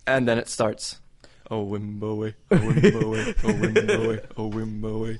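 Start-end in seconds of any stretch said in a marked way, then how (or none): 1.5-5.2 sing-song call. Retold or imitated. Stranger's singsong call in story.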